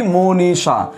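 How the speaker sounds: মনীষা drawn out syllable by syllable, mo-nee-sha; careful pronunciation. Shown as a demonstration. Teacher showing the class how মনীষা is pronounced, careful syllable-by-syllable pronunciation. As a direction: say মনীষা as "mo-nee-sha", each vowel held. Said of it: "উচ্চারণ কি?".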